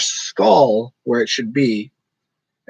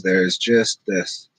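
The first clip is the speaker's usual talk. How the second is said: monotone; 6 semitones lower, much slower than usual. Shown as a demonstration. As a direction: lower monotone, slow and level. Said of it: "I talk in a very monotone".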